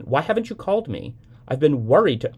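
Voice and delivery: mother yelling. A narrator's reading. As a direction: scold down the line like a frantic mother. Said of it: "don't yell at me".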